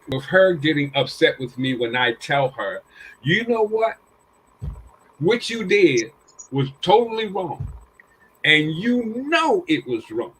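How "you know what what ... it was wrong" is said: retold scolding, higher and louder; a father telling his girl he's disappointed; lightly voiced stern dad; stern father lecture.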